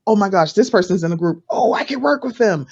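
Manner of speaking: lightly acted eager gush; mock excited. Overzealous newcomer spotting someone in the group, mock excited. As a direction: rise into a playful 'oh' on the second thought. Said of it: "especially if you're excited, you're like".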